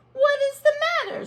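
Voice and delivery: high, fast worried question; concerned asking. Acted. Owner asking her crying pets, high and quick. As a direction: ask quickly, a bit alarmed. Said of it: "she asked".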